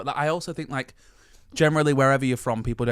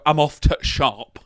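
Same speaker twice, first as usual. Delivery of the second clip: Yorkshire accent; 5 dB louder, slower than usual. Shown as a demonstration. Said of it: "I don't go".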